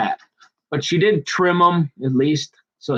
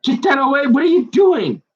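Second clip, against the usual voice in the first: much higher, louder alarmed shout; startled yelling; 14 semitones higher, 4 dB louder than usual. Retold or imitated. Mom startled by the cat, alarmed high shout. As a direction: recoil from the cat with a yelp. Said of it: "she's like".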